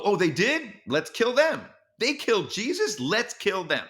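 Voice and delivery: high-pitched mocking quote of a mob; mock mob outrage. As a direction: mimic bigots jumping to an excuse. Acting out an antisemitic mob.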